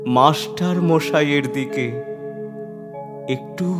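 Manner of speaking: subdued, halting recitation with long pauses; hushed narration. A narrator's reading. Reciter approaching the teacher's covered body, hushed narration. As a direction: hold it back, phrase by careful phrase.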